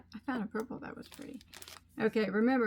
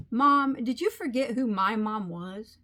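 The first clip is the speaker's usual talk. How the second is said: slower and louder, a cheeky mock-sassy ten-year-old; sassy daughter comeback; 6 dB louder than usual. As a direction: lean into it like a kid who knows she's won.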